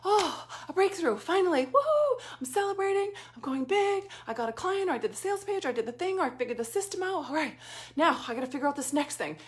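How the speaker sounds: high, giddy mock celebration; hammed-up thrill over a small breakthrough; mock excitement. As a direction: play up a hollow little victory. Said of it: "and, like".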